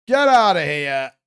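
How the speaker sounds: drawn-out shout; slow shout. Real, not acted. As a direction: shout the scammer out, slowly. Kicking scammer off.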